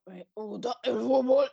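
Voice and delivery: slow, dreamy mock-swooning voice; drawn out like she's falling for football. Shown as a demonstration. Friend mocks how her voice changes talking football, slow mock-swoon. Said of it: "y se te pone la voz".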